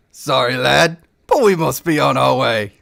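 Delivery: lightly voiced cocky elf; card sharp gloating over the dice; smug elf gambler.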